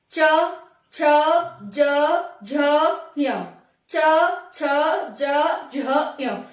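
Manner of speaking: च छ ज झ य with the tongue touching the palate, spaced apart; teacher modelling palatal consonants च छ ज झ य; palatal sounds demo. Shown as a demonstration. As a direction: sound out च, छ, ज, झ, य slowly against the palate. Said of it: "बोल के देखो".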